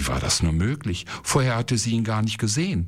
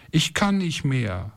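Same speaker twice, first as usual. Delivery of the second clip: put-on a light, higher, tearful child's plea; crying child; 7 semitones higher than usual. Ismael to his mother in the desert, a mild tearful whine. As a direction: whimper it out like an exhausted boy. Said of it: "weinte Ismael".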